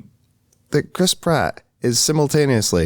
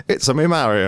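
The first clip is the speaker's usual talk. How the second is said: northern English Mario; 2 semitones higher than usual. Retold or imitated. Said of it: "actually from the north of England".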